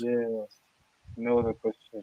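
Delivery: quiet, glum, downcast, depressed tone. Answering whether there are any other questions, sounding depressed. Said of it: "Don't sound all fucking depressed".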